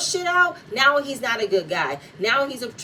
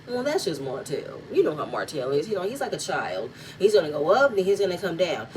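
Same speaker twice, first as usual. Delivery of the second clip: dismissive shrug of a voice, lower; lowered mock voice; 4 semitones lower than usual. Vlogger imitating Chris excusing Martell, lower dismissive mock voice. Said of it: "here he goes".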